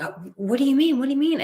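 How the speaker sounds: high, put-on playing-dumb voice; lightly hammed-up feigned innocence; mock innocent girls. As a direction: imitate them acting clueless.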